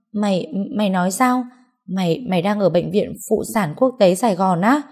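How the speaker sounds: startled friend tripping on the first word; stammering surprise. Acted. Friend learns she is at the maternity hospital, stammering. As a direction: stammer it out, disbelieving, rising at the end. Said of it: "Ngân lắp bắp nói".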